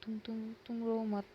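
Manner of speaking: a touch of panic under reassurance; panicked comforting. Acted. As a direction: stammer a bit while trying to calm him. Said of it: "अबीर घबरा जाता है".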